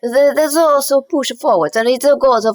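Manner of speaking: playful Italian-accented English. Shown as a demonstration. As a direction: push the Italian-accented words forward, openly. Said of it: "it goes forward like this".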